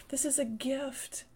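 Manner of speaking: hushed whisper of the phrase. Acted. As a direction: lean in and whisper it. Whispered repeat in sermon.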